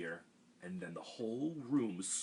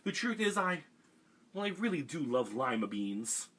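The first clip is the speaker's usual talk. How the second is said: confession; 6 semitones higher, 5 dB louder than usual. A narrator's reading. Camilla confesses.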